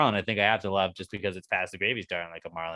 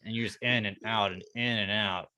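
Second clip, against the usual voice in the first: mock erotic. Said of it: "this is Q-tip erotica".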